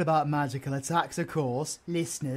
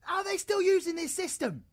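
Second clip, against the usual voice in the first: high, frustrated yell; annoyed shout. Real, not acted. Fed up with the old system, an annoyed shout. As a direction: let the irritation burst out.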